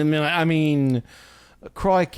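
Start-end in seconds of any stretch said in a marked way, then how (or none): 1.7-2.2 botched British sliding into Australian; put-on Australian twang on "crikey"; Australian accent. Comedian attempting her British accent, coming out Australian. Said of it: "well, that's Australian".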